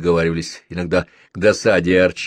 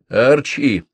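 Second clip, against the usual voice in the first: serious; 5 semitones higher, 5 dB louder than usual. A narrator's reading. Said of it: "серьёзно сказал я".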